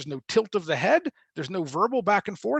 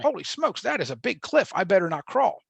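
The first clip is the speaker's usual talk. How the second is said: mock baby alarm; 3 semitones higher than usual. Baby voiced at cliff edge.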